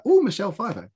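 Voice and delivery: high "Oh", falling onto Michelle Pfeiffer; mild starstruck surprise; pleasantly impressed. Retold or imitated. Viewer reacting to another famous guest star, pleasantly impressed. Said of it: "guest stars where I've been like".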